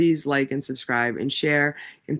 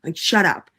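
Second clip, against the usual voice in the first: 1 sarcastic retort; 2 semitones higher than usual. Retold or imitated. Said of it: "I'm like".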